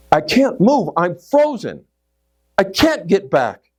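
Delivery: mildly panicked, high-pitched protest; pleading in mock panic; panicked reply. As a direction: act out being stuck with fear. Acting out frozen terror at the edge.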